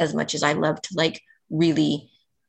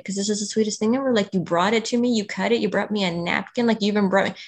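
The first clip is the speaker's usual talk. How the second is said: higher, fast, lightly teary thanks; retold teary gratitude; 5 semitones higher, faster than usual. Telling a podcast host how a sandwich made her cry, mildly teary and higher. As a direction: recall being moved to tears. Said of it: "And I just started crying".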